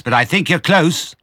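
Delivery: high, loud farmer's yell; shouted reply. A narrator's reading. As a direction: holler it across the digging. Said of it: "shouted Boggis".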